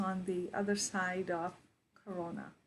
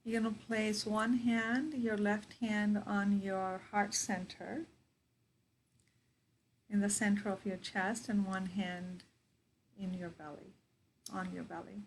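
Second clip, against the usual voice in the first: guided meditation. Real, not acted. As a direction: guide them into their breath, unhurried.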